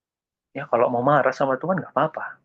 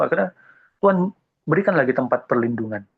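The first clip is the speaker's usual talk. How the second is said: ordinary talk, nothing marked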